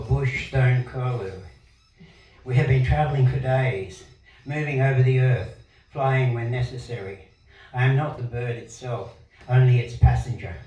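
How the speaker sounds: projected, deliberate poetry recital; poem reading. Acted. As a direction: read it out line by line with pauses. Reads own poem aloud.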